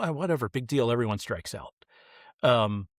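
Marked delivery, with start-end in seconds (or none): 0.0-1.7 dismissive adult. Retold or imitated. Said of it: "we can't just".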